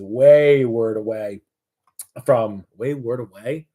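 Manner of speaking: slow, questioning rise on the odd phrase; unsure of the words, testing them aloud; trying out the wrong phrase with a doubtful rise; puzzled wording. Real, not acted. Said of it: "I don't know".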